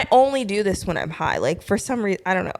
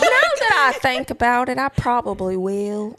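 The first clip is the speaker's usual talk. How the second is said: put-on Southern accent; 3 semitones higher than usual. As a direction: lean into the Southern twang. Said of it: "I want you to do the accent".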